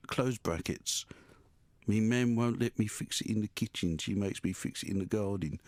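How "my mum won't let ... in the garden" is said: lower, softer attempt at Brummie; half-hearted Birmingham accent. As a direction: have a poor, subdued go at a Birmingham accent. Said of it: "I can't do the accent".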